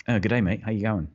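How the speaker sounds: a lightly voiced, reserved teeth in Australian accent. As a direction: say it through half-closed teeth in a reserved Australian way, only a hint of it. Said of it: "the teeth in accent is, is like a, a more reserved".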